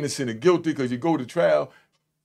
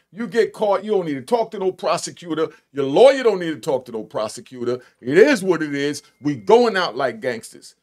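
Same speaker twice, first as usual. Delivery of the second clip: louder with each line, pounding the point home; laying down the street code, getting louder; emphatic street code; 5 dB louder than usual. Real, not acted. To the audience, insisting on the street code, building louder.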